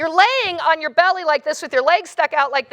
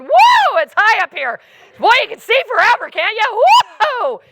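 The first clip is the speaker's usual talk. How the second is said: higher, louder mock sightseer chatter; hammed-up giddy whooping; 6 semitones higher, 6 dB louder than usual. Rider dangling high up babbling at the view, giddy whooping. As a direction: whoop and babble like a dazed thrill-seeker. Retelling panicked babble while hanging.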